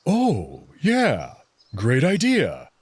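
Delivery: light up at the idea; eager agreement. Acted. Amicus jumps at the picnic plan, eager and excited.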